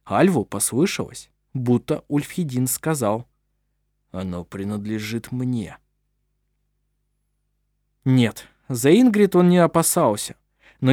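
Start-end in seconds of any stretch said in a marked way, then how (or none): 4.1-5.8 soft, intense, possessive murmur; forceful whisper. A narrator's reading. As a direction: breathe it with hidden force. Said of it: "беззвучно, но с силой произнёс".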